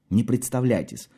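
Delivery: ordinary delivery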